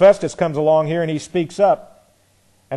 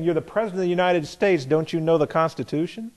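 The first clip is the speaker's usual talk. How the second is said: mock challenge. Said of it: "coming along saying".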